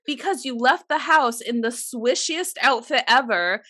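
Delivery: loud, high exasperated rant. Retold or imitated. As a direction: vent the frustration, half laughing. Retold exasperated reply.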